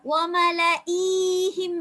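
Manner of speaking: ஒமல ஈஹிம் drawn out in careful recitation; recited slowly. Shown as a demonstration. Teacher showing students the careful recitation. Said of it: "என்று நீட்டாம ஓதணும்".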